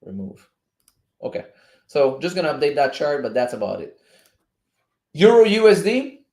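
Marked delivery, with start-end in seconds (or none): none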